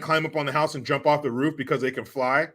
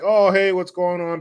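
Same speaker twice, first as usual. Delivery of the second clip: higher, louder mock-cheery greeting; dad answering; 7 semitones higher, 6 dB louder than usual. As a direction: play the chipper dad picking up the call. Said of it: "And he's like".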